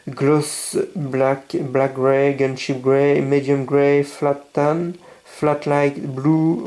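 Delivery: English paint names read in a heavy French accent, a bit slow at times. Real, not acted. Model builder reading English paint names to viewers, French accent. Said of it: "Excusez mon accent anglais".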